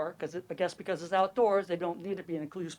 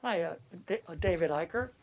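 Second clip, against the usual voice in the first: muffled through a face mask. Real, not acted. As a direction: speak through a cloth mask. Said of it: "speak up with a mask and all".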